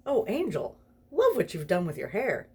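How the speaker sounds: Crowley teasing the spider-covered angel, gleeful; mocking demon. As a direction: savour the teasing.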